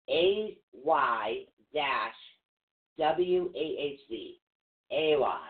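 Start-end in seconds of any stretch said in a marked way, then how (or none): 4.9-5.4 "ewas" said as AY-wahz; pronunciation demo. Shown as a demonstration. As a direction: say "ewas" firmly, opening with a long A. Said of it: "It's pronounced".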